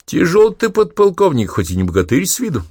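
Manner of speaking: high breathless panting words; out of breath. Acted. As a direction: gasp it after heavy carrying. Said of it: "и тяжело дышал". (запыхавшись)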